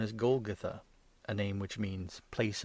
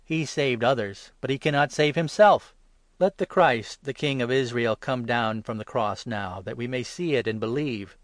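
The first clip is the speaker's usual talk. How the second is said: mockery; 2 semitones higher, 8 dB louder than usual. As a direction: sneer to one another. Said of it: "said to one another in mockery".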